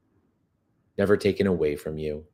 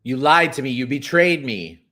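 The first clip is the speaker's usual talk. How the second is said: mild accusing berating; 6 semitones higher, 6 dB louder than usual. Pretend. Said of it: "berate them and say".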